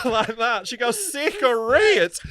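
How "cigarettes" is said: high, drawn-out mock Southern drawl; loud mangled American South accent; bad Southern American accent. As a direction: stretch it out, badly faked Southern US. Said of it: "tries to do a Southern American accent".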